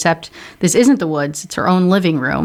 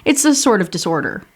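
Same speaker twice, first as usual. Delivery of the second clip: Creepy Doll; 7 semitones higher than usual. Acted. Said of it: "Creepy Doll says".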